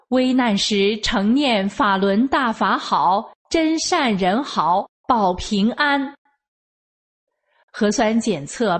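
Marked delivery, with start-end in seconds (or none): 0.1-6.1 slow repeated recitation. Retold or imitated. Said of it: "我就又告诉他".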